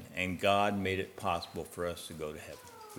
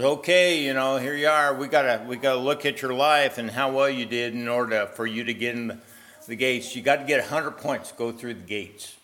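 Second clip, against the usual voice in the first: loud, higher gatekeeper voice; booming heavenly gatekeeper; 4 semitones higher, 8 dB louder than usual. Acted. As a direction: play the cheerful gatekeeper at heaven's gate. Gatekeeper voiced in sermon story.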